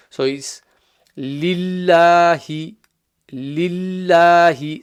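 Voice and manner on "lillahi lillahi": LILLAHI with a flat, empty-mouth lam. Shown as a demonstration. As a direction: recite LILLAHI slowly, mouth kept flat, long aa. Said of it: "becomes empty mouth, not full mouth".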